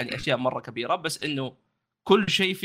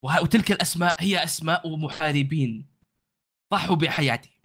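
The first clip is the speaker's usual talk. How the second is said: proud guide in formal Arabic; lightly voiced proud warrior host; formal standard arabic; 3 semitones higher than usual. GM voices warrior NPC in fusha.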